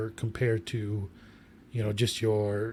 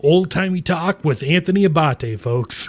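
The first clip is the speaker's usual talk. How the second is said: louder, higher mock show announcer; 5 semitones higher, 6 dB louder than usual. Co-host teasing the host with a mock radio intro.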